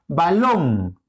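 balón with a long, stressed final -lón; stress on LON. Shown as a demonstration. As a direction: stretch and lean on the last syllable of balón. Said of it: "acento en long". (acento marcado en la última sílaba de balón)

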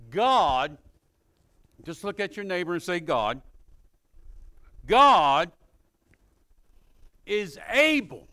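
loud, drawn-out scripture proclamation; emphatic preaching. Real, not acted. Preacher reading a verse to the congregation, emphatic and loud. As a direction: proclaim the verse with long stressed words.

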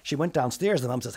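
ordinary delivery

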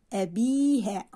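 "أبيها" with the bii lengthened; long vowel demo. Shown as a demonstration. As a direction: hold the ii in "أبيها". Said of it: "هل نطقت حرف الياء".

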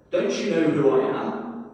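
indignant donkey demanding to be recognised; a touch of cross indignation. Acted. Donkey scolding the crowd at the well, mildly cross. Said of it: "he said crossly".

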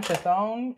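Chthon said as "kuh-THOHN"; long-o pronunciation. Shown as a demonstration. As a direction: try Chthon with a long o, tentatively rising. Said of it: "I'll say Chthon".

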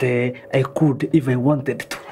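flat robotic delivery. Acted. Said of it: "stop talking like a robot".

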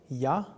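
Ya with a short vowel; short syllable. Shown as a demonstration. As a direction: keep the A in Ya brief. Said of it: "next is short".

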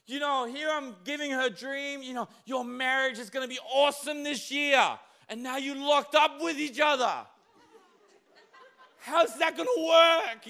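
high, loud, laughing mock God; God's mock panic. God worrying about marriages in lockdown, high laughing shout. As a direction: play God fretting over locked-up couples. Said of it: "and God's like".

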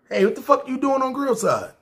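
high-pitched mock outburst from the boss; imitating angry boss. Angry boss Jeremy confronting him.

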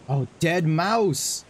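slow drawn-out realization. Real, not acted. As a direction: realize it slowly. Realizing the clue.

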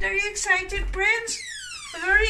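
sing-song pet voice. Real, not acted. Owner asking her dog if she's excited, high baby talk.

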